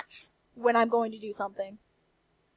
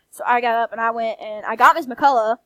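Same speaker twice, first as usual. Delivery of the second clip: a little louder with a Southern country twang; country accent slipping; 5 dB louder than usual. Real, not acted. A vlogger hears her own Southern country accent slip out. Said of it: "my country accent's coming out".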